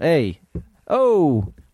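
animated New York accent. A New Yorker shows off their accent in conversation: Brooklyn accent. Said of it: "my Brooklyn accent is so awesome. Check this out".

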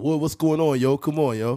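put-on New York accent with casual street slang. Retelling videos of new york dudes teasing a buddy: imitating new york dudes. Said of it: "And the dude be like".

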